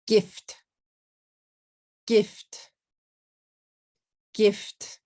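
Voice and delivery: "gift" in one short beat, f straight into t; English GIFT with no added vowels; one-syllable English. Shown as a demonstration. Teacher modelling the word for learners, one-syllable English. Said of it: "Gift is one syllable".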